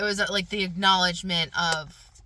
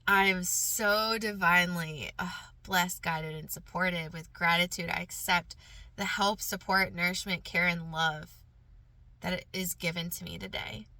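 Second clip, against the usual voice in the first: measured recital, falling away softly at the end; affirmation recital; 3 dB quieter than usual. Real, not acted. Recites her first affirmation.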